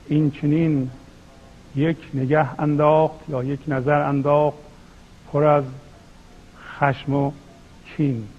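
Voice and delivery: measured verse reading with deliberate pauses; poetry recitation. Acted. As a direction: recite the couplets phrase by phrase. (شعرخوانی شمرده با مکث)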